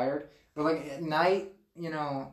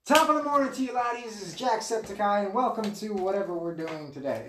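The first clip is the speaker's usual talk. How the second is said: Jacksepticeye; 3 semitones higher than usual. Acted. Host announcing his number three pick, YouTuber impression. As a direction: open big like an energetic Irish video host, then ease off. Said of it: "Yeah, Jacksepticeye".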